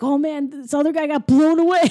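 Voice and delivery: a touch of panic, hammed up; mock freaking out. Retelling the burglar in the van, mock freak-out. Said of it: "he's freaking out".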